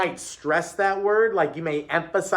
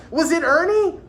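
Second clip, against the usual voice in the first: eager guessing; 12 semitones higher, 6 dB louder than usual. A narrator's reading. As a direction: shout the guess like an eager pupil. Pupils eagerly guess the boy.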